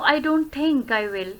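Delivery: slow, falling away on "I will"; downward intonation. Shown as a demonstration. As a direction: let the pitch slide down to "will". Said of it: "downward intonation". ("will" पर नीचे गिरता लहजा)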